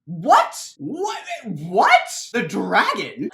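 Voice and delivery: panicked stacked questions; shocked. Acted. Crowd hears about the dragon.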